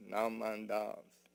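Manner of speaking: slow, drawn-out Naman Dabs, a little low; said very slowly. Retold or imitated. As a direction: stretch each syllable of Naman Dabs, unhurried. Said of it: "And you say it very slowly".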